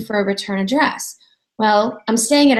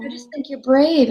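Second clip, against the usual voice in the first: sincere repeat; 3 semitones higher than usual. Retold or imitated. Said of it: "in all seriousness".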